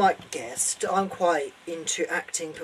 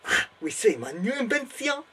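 hammed-up German accent, calling out the invention; German inventor presenting his machine with pride; German professor announcing; 6 semitones higher than usual. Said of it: "I am Professor Von Strakontrek".

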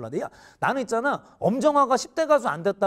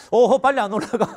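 mock stern order; 2 semitones higher, 5 dB louder than usual. Sergeant teasing junior to climb.

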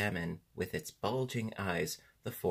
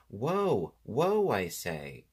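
yelled command; 2 semitones higher, 5 dB louder, much slower than usual. A narrator's reading. Hurt boy orders the Sawhorse to stop, yelling. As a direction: yell a slow, insistent halt. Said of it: "from where he yelled again".

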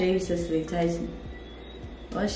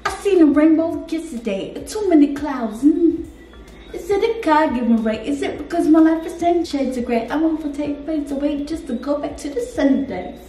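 impression; 3 semitones higher than usual. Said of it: "Try, try to do a rapper".

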